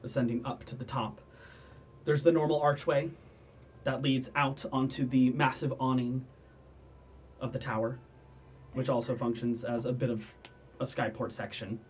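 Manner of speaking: measured game master narration; scene setting. Acted. Game master describes the tower top, unhurried narration. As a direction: describe the place phrase by phrase, with pauses.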